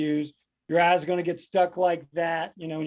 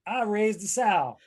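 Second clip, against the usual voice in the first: slow, higher, weighty delivery; parent's proverb; 4 semitones higher, slower than usual. Acted. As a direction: space it out like a parental warning. Reading a parent's saying, emphatic.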